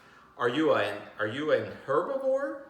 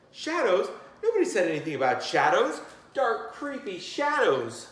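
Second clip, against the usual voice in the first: higher, louder, spooked; mock alarm; 6 semitones higher, 4 dB louder than usual. A narrator's reading. Teacher voicing a character alarmed by shadows, hammed-up fear. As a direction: dread the word shadows.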